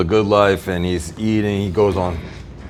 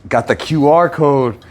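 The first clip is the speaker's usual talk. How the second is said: snake oil seller. Acted. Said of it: "That's my impression of a snake oil salesman".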